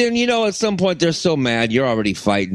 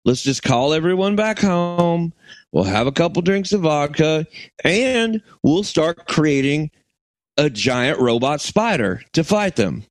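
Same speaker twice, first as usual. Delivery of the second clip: mock Russian coming out Southern; lightly put-on Southern accent. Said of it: "I was doing a Southern accent".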